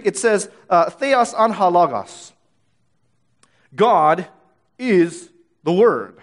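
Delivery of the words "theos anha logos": slow, careful Greek "theos anha logos"; Greek reading. Shown as a demonstration. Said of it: "literally in the Greek".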